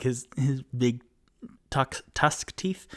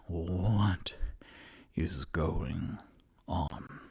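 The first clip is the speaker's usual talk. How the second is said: hushed, breathless whisper, much softer and lower; scared whisper; 5 semitones lower, 6 dB quieter, much slower than usual. Acted. Tutu whispering in the dark house, afraid. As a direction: whisper it so nothing downstairs hears.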